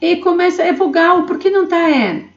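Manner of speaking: lightly voiced puzzled student asking; a touch of a confused student. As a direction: question the teacher like a doubtful pupil. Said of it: "playing a questioning student". (leve voz de aluno confuso perguntando)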